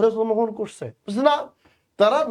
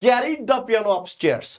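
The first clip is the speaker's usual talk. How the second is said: very slow, deliberate read of the question; much slower than usual. Shown as a demonstration. Teacher reading question three aloud slowly. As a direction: read the sentence slowly to the class. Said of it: "বলছে".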